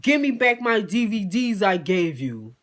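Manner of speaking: drawn-out mock petty demand. Imitating the guest demanding his gifts back, petty. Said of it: "he started getting petty".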